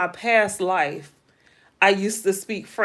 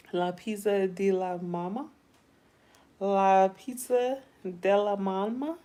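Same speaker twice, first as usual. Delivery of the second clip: mock Italian; 6 dB quieter than usual. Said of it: "that sound Italian".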